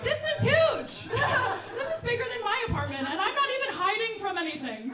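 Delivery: high-pitched comic astonishment; retold amazement. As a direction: marvel in mock disbelief at a huge place. Comic retold amazement at attic size.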